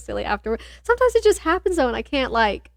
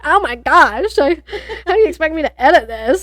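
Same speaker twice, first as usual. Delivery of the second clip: fast, louder exasperated outburst; mock exasperation; 4 semitones higher, 5 dB louder than usual. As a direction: throw up your hands, exasperated. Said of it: "I was like".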